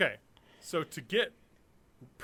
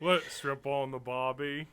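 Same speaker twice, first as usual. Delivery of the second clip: bad Australian accent. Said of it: "when I try and do Australian".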